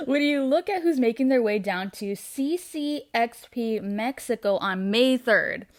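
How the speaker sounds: put-on lightly done British Butcher accent, slowing at the end. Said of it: "I ca-, I can't do it".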